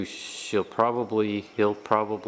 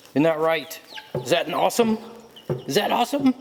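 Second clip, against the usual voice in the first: high sing-song talk to the dogs; pet talk voice; 8 semitones higher, 5 dB louder, faster than usual. Real, not acted. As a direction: coo at the dogs excitedly. Owner talking to his dogs.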